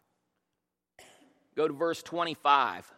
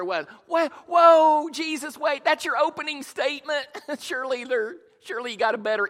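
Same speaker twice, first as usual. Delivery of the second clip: higher, louder comic double-take; shocked disbelief; 9 semitones higher, 8 dB louder than usual. Retold or imitated. Pastor reacting to Jesus's harsh opening, mock shocked. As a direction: react like the speaker just blew it. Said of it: "And I'd be over here".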